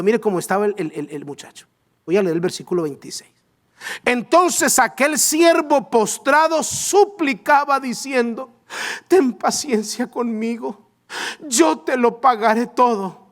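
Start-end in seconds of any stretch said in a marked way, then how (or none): 4.0-13.2 drawn-out pleading Bible reading; slow dramatic reading. Shown as a demonstration. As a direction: stretch each word, imploring. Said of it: "lectura dramática lenta". (lectura lenta y suplicante)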